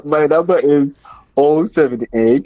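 slow, careful digits; slowly. Shown as a demonstration. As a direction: spell each number out slowly. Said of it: "let me repeat slowly".

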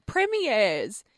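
premiers drawn out slowly, ending like premieres; imitated mispronunciation. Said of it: "she's going premieres".

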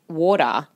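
"water" the Australian way, sounding like "order"; Australian "water", close to "order"; Australian pronunciation. Shown as a demonstration. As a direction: say "water" so it could be heard as "order". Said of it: "Australians say water really stupid".

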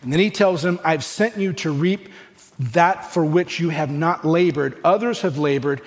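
slow, solemn reading of the verses; measured Bible reading; slow scripture reading. Acted. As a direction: let each phrase of the text land slowly. Reads scripture aloud.

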